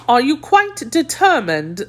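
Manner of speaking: lingering doubt. A narrator's reading. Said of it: "with a lingering doubt".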